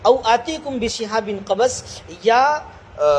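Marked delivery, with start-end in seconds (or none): 0.0-1.8 slow, measured tajweed chant; drawn-out Quranic recitation. Acted. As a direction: recite the verse slowly and melodically. Verse repeated as recitation.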